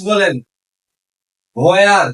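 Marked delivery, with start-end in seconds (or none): 1.7-2.1 "Where" as "hoo-ear", louder; H pronounced. Shown as a demonstration. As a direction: sound an h before the w in "Where". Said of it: "যদি এইচ এর উচ্চারণ হয়".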